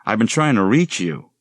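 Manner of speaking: put-on breathless, hurried girl's voice; flustered apology. Young woman rushing past her professor, flustered and apologetic. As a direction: stammer out excuses in a rush.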